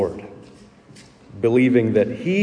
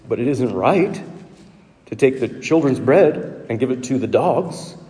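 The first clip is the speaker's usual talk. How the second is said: lightly ironic, as if in air quotes; a gentle wink on the dogs line; ironic humor. Shown as a demonstration. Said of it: "hear him say it with some ironic humor".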